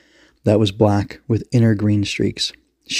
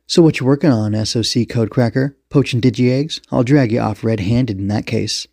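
tough police commander; 2 semitones higher than usual. Acted. Commander grills the suspect.

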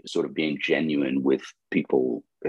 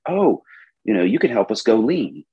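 mock naive client; 5 semitones higher than usual.

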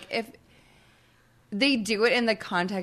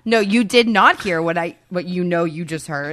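lightly hammed-up firm denial; mock gaslighting; 7 dB louder than usual. Parent pretending the child misheard, mock-firm emphatic denial. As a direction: deny it emphatically, mock-incredulous. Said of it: "then the gaslighting starts".

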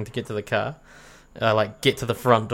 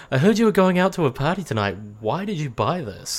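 lightly voiced mum, pitched up; a higher, put-on motherly voice; imitating mum; 4 semitones higher than usual. Son imitates his mum on the party, higher mum voice. Voicing mum, imagined scene.

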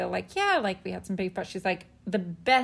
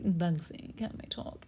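put-on light Australian accent, soft and hushed; 3 semitones lower, 7 dB quieter, slower than usual. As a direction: imitate an Aussie asking gently. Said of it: "you do the Australian accent way better".

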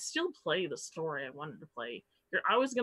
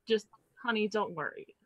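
condescending; 3 semitones higher than usual. Retold or imitated. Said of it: "it was just very condescending".

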